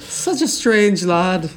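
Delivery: mock Scottish.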